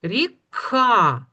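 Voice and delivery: ріка split, the К pushed out strongly before А; next sound stressed. Shown as a demonstration. Teacher drawing out the next sound for children, К stressed. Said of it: "Наступний звук".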